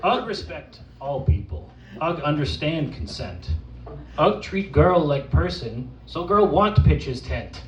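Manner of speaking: lightly voiced simple caveman; caveman persona. Poet performing as Ugg for the audience, caveman persona. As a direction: recite it as an earnest caveman, lightly played. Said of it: "from the perspective of an actual caveman".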